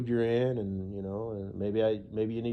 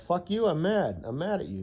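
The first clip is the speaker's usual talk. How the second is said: mock angry; 7 semitones higher than usual. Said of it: "And be like".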